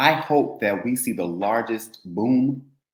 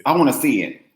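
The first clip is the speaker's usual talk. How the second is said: insisting; 5 dB louder than usual. Real, not acted. Insisting on seeing video.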